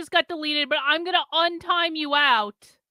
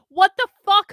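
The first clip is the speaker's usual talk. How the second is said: sudden loud exclamation of disbelief; yelling at someone; 3 semitones higher, 7 dB louder than usual. Real, not acted. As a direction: burst out loudly at the culprit. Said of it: "I'm yelling at Sin".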